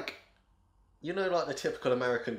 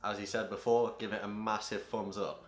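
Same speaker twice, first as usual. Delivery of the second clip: low-energy, deadpan sign-off line; unenthusiastic; 3 semitones lower, 4 dB quieter than usual. Real, not acted. Co-host echoing the outro plug to viewers, unenthusiastic. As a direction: repeat the plug with little enthusiasm. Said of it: "we've got the enthusiasm".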